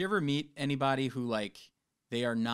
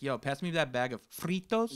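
Spanish accent. Shown as a demonstration. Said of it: "speaking in a Spanish accent".

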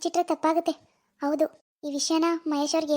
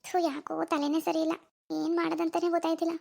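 softer, worried talk to oneself; troubled musing; 6 dB quieter than usual. Acted. Alone, not knowing what to do, troubled musing. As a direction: think aloud quietly, at a loss.

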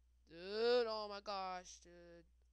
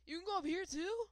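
surprised; 10 semitones higher, 8 dB louder than usual. Real, not acted. Discovering new area, surprised.

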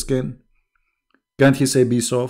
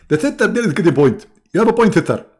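much higher, louder put-on preacher; mock preacher; 8 semitones higher, 5 dB louder, faster than usual. Mimicking the preacher conceding, high hammed-up voice.

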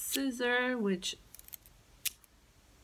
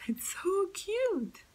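breathy whisper; 12 semitones higher, slower than usual. Real, not acted. Gushing over a tiny decoration.

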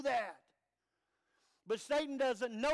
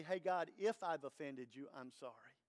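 timid apology; 8 semitones lower, 5 dB quieter than usual. Acted. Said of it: "He didn't say".

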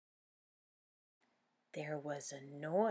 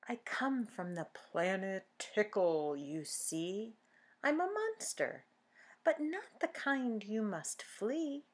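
playful monster; 2 semitones higher than usual. Acted. Tickle Monster speaks in rhyme.

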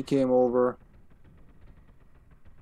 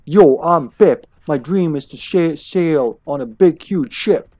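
lightly voiced rapper delivery; mock rapper. Player joking that Pip raps, mock rapper. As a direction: say it like a would-be rapper. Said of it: "You wanna be a rapper?".

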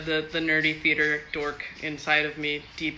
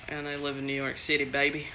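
a slight slip into a Texan accent; 2 semitones lower, 4 dB quieter than usual. Real, not acted. Telling fans where she lives, light Texan accent. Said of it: "I don't know why I said that in a Texan accent".

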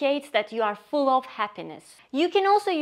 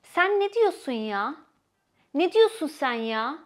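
mock angry; 2 semitones higher than usual. Shown as a demonstration. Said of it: "you got angry".

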